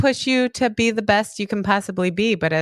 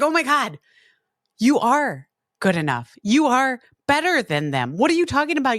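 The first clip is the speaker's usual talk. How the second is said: incredulous; 6 semitones higher than usual. Retold or imitated. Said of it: "I was like".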